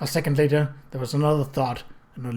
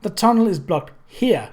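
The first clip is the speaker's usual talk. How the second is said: firm; 4 semitones higher, 4 dB louder than usual. Acted. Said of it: "Aunt Georgie spoke firmly".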